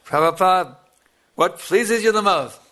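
loud, high, eager asking; eager question. Retold or imitated. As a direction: call out eagerly to the master. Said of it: "He said".

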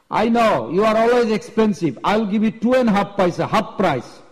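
lightly voiced bargain hunter; pushy haggling. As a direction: push back on the seller's price. Acted haggling, customer challenges seller.

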